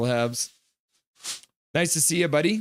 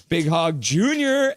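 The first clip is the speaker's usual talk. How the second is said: drawn-out, raised name call; playful cheer; 4 semitones higher, 4 dB louder, slower than usual. Acted. Streamer reading a fan's chat, drawn-out playful cheer. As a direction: stretch it out and lift the last word. Voicing fan's teasing message.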